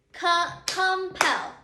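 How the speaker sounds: slow, drawn-out "compel", split into com and pel; syllable-by-syllable stress. Shown as a demonstration. Teacher testing a word's accented syllable, sounded out slowly. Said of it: "accented or the strongest syllable".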